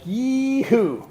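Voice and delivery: a high, drawn-out "Yee-hoo"; party whoop. Retold or imitated. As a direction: whoop like the party just started.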